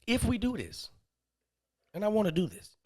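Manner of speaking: imitated woman's proposition. Woman laying out terms to the man, imitated proposition. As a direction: pitch it up as her.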